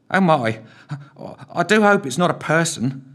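high anxious squeak; squeaky worried voice. A narrator's reading. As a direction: squeak it out nervously. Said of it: "squeaked Philby".

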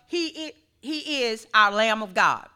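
catching on a hiccup. Real, not acted. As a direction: speak through the hiccups. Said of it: "I don't know why I have the hiccups".

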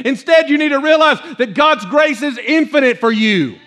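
earnest, driving sermon delivery; fired-up preaching. Real, not acted. Preacher assuring believers God is not judging them, fired up. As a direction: carry the congregation along with urgency.

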